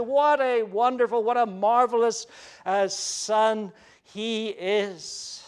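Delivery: lightly voiced proud father delighting in his son; the Father's pride. God the Father praising his obedient Son, lightly voiced with delight. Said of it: "that voice is filled with tones of pride".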